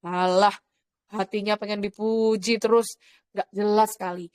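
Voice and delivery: low-pitched inner grumble; dismissive private thought, kept low; gerutu dalam hati. Retold or imitated. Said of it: "ngomong gini dalam hati saya". (menggerutu dalam hati)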